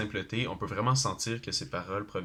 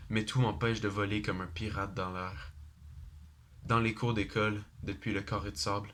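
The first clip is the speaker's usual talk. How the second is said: measured, even-pitched recital in short phrases; poem recitation. Acted. Student reciting a rap song as a poem, measured poem recitation. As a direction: recite it line by line, pausing between verses.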